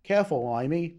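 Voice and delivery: hammy fake British voice; terrible British accent. Shown as a demonstration. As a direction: quip in a bad British accent. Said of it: "doing a fucking terrible British accent".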